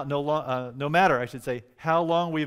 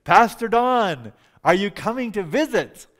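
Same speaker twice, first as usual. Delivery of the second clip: high, loud drawn-out call; imitating a distant shouted greeting; calling from afar; 7 semitones higher, 8 dB louder than usual. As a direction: holler out into the darkness. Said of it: "I hear a voice out of the darkness".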